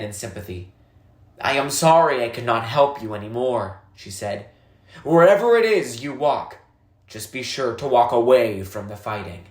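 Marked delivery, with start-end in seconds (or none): 1.4-3.8 a lightly voiced old woman, calm and grave; old woman, somber. 5.0-9.4 a lightly voiced old woman giving parting advice; old woman, earnest farewell.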